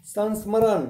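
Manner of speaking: teacher demonstrating how to say संस्मरण; clear pronunciation. Shown as a demonstration. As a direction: model संस्मरण carefully for the class to repeat. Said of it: "देखो इसका उच्चारण मैं कैसे करता हूँ".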